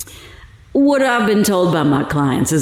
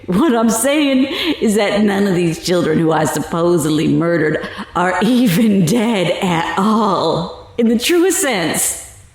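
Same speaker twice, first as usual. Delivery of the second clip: laughing. Acted. Gloating to reporter.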